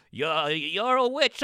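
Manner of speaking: slow, pointed mock accusation; accusing villager. A Salem villager accusing a woman, slow mock-solemn. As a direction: point the finger slowly and solemnly. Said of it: "It's like".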